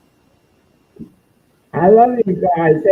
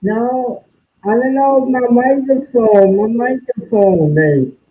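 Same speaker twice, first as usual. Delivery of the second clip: underwater; 2 semitones higher than usual. Real, not acted. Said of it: "Why do you sound like you're underwater?".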